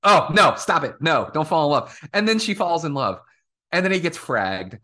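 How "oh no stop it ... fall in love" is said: louder, sudden self-scolding. Retold or imitated. La'an scolding herself for falling for Kirk: loud. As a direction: catch yourself and snap out of it.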